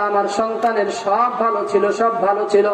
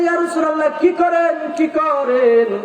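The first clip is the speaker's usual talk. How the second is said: mother crying out as her son faces fire; alarmed mother; 5 semitones higher than usual. Acted. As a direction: beg him to stop in alarm. Mother begging stop.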